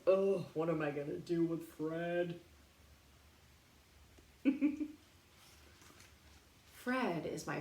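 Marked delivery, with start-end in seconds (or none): 0.1-2.4 exasperated dad. Acted. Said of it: "My dad says".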